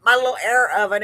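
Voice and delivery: "air oven" with a drawn-out Texas "air"; Texas drawl. Real, not acted. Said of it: "was that a Texas drawl there?".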